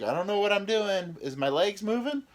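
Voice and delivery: high, loud flustered rambling; panicked. Retold or imitated. Tipsy guy fretting to the umpire, high and panicky. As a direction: sound lost and helpless on the basepath.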